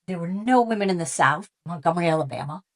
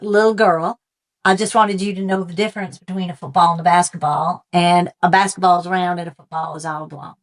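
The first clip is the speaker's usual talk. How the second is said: bad Southern accent. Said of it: "apologize for the bad Southern accent".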